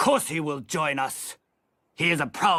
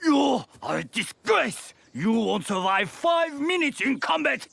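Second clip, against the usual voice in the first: drill sergeant shout; 9 semitones higher than usual. Acted. Drill sergeant berating recruits.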